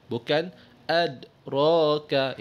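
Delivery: adraka said without the bounce on the dal, the wrong way; wrong flat dal. Shown as a demonstration. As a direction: give adraka a dead, unbounced dal, slowly. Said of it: "Itu kurang tepat".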